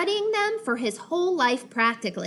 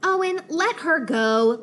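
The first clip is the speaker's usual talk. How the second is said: loud, higher shout; 5 semitones higher, 5 dB louder than usual. Acted. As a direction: shout down from the room. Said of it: "Lydia shouted".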